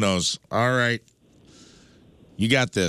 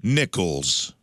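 slow announce; 3 semitones higher, much slower than usual. Acted. Host reads quiz name dramatically.

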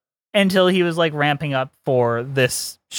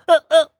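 high, louder squealing laugh; other Pee-wee laugh; 11 semitones higher, 5 dB louder than usual. Shown as a demonstration. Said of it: "or the".

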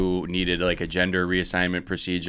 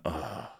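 soft groan of dismay; disgusted groan; 5 semitones lower, 14 dB quieter than usual. Retold or imitated. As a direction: let out a quiet, deflated ugh. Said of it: "whole town hall just went".

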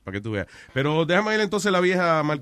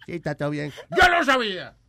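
put-on high, loud, laughing Colombian tough-guy accent; 7 semitones higher, 5 dB louder than usual. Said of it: "el colombiano te saluda".

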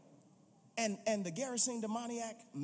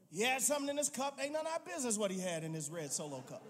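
laughing aside; 2 semitones higher, faster than usual. Real, not acted. Joking aside about Jesus' cup.

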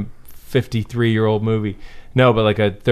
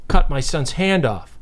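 slightly raised, measured dad scolding; contained dad voice; 2 semitones higher, slower than usual. Retold or imitated. Dad confronting snowboarder over son's hand, contained dad voice. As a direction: hold the anger in, spell it out politely. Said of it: "Contained dad voice".

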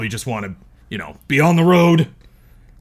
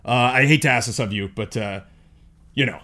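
hotel security officer. Acted. Player voices hotel security Consuela.

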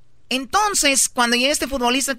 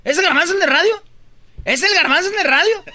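plus haut et fort, on se moque de Garbanzo; lance-le fort en riant de lui; teasing shout; 6 semitones higher, 4 dB louder, faster than usual. Real, not acted.

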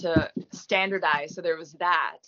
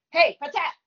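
high, loud burst of Newcastle accent; 10 semitones higher, 6 dB louder than usual. Shown as a demonstration. Actor jokingly showing her Newcastle Northern British accent, high mock Geordie shout. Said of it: "a Newcastle Northern British accent".

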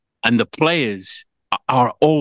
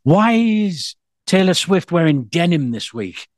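Swiftie voice; 6 semitones higher, slower than usual. Retold or imitated. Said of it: "I'm a bit like a Swiftie".

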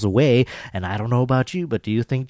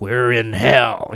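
imitated menacing growl, slow and drawn out; mock snarl, weighting each word slowly; retold rage, held back and slow; 4 dB louder, much slower than usual. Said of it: "snarling and full of rage".

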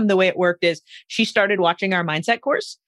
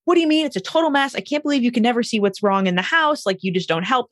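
higher, mildly heated wife's complaint; a touch of upset disbelief, fading back down; retold freak-out; 4 semitones higher than usual. Wife to husband over the messy house, mildly exasperated. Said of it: "his wife kind of freaked out".

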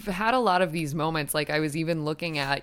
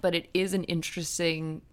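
slurring words. Real, not acted. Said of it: "I'm slurring my words".

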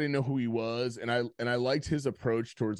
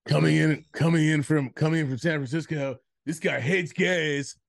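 mock ring announcer; 2 semitones higher than usual. Mock fight announcer intro.

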